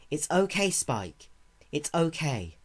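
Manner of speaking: soothing. Acted. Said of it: "on the verge of tears".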